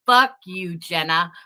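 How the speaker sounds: repeated loud curses, rising then fading; angry rant. Real, not acted. Ranting at Jenna on a live, furious cursing. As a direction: spit each curse at her.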